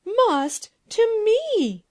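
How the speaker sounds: loud, very high, drawn-out outrage; screamed. A narrator's reading. Furious princess challenges the girl ruler, screaming. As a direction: scream it slowly as an affronted princess. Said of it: "screamed the princess".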